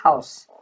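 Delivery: "house" opening on a light, breathed H; weak H. Shown as a demonstration. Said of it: "é um H muito fraco, como na palavra".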